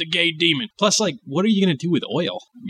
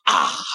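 mock preacher huff; 10 semitones lower than usual. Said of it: "end every sentence with".

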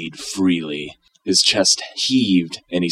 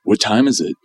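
grumbling; 4 semitones higher, 4 dB louder than usual. Acted. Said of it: "Wonka grumbled".

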